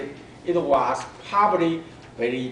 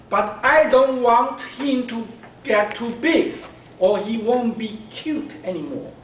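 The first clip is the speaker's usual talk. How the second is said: put-on little girl's voice; 7 semitones higher, 5 dB louder than usual. Girl worries to her mom.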